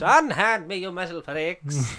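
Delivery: lighter repeat of the hammy line; theatrical, drawn-out insult; hammy stage actor. Acted. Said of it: "get your Matt Berry doing Patrick Troughton stuff".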